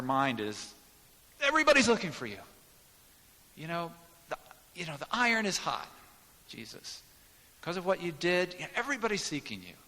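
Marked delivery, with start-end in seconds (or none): 1.4-2.4 high, loud, pressing urgency; eager disciples. Acted. Disciples urging Jesus. 3.6-9.7 high and insistent, urging; eager disciples. Acted.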